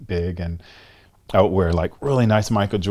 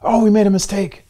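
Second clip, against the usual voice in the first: mock official correction, louder; 13 semitones higher, 8 dB louder than usual. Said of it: "the other person feels crushed".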